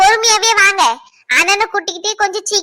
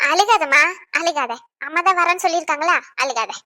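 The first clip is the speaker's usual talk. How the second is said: soft, lowered comforting voice; gentle soothing; 3 semitones lower, 5 dB quieter than usual. Acted. Neighbour telling crying girl not to cry, soothing. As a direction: soothe softly, sinking quieter at the end.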